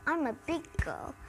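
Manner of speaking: lightly voiced little girl pig; a hint of a little girl insisting; Peppa. Peppa saying her brother is too little, lightly imitated. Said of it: "Peppa keep on saying".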